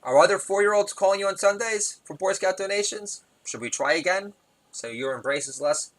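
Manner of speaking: imitating an indignant child; angry tone. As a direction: scold like an affronted small boy. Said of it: "in a real angry tone".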